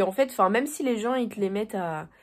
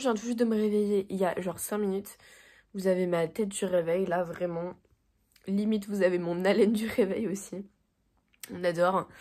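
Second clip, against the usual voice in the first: morning voice; 2 semitones lower than usual. Real, not acted. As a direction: talk with a groggy morning rasp. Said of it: "et ma voix du matin". (voix du matin éraillée au réveil)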